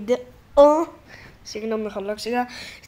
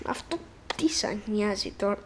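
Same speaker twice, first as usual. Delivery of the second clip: whisper; 2 semitones lower, 9 dB quieter than usual. Real, not acted. Aside to viewers.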